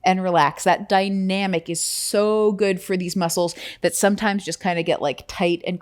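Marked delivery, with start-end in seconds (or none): 0.0-0.6 slow instruction. Shown as a demonstration. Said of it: "feel like squeeze and relax".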